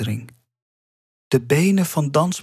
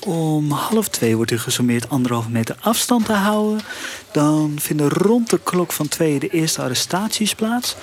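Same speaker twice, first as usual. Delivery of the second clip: polite call-centre agent on the phone; chirpy helpful phone operator, lightly voiced; Ellen. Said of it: "u spreekt met Ellen van de Protestplanning".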